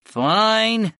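high, drawn-out cat's concession; giving in. A narrator's reading. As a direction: give in reluctantly as the cat. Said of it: "Dio gave in".

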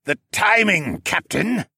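loud warning over the storm; bellowing. A narrator's reading. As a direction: call urgently to the captain. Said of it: "Siskern bellowed".

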